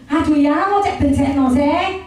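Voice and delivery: slow, grumbling complaint to husband; mock annoyed grumble. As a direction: sound mildly fed up. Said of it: "Kalau saya lagi kesel". (menggerutu kesal kepada suami, pelan)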